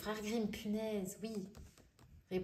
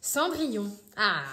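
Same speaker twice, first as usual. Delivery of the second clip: excited exclamation; 10 dB louder than usual. Real, not acted. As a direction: call out the name, thrilled. Excited to find Cinderella.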